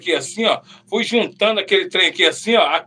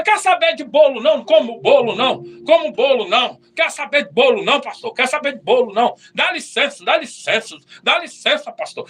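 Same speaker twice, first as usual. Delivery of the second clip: sulky refusal; 3 semitones higher than usual. Retold or imitated. Sulking, rejecting the pastor's cake.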